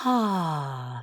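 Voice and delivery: long falling "ah" on the breath; sigh out. Shown as a demonstration. Teacher showing listeners how to sigh out a deep breath, sighing. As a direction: let out a long, relaxing sigh. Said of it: "and sigh it out".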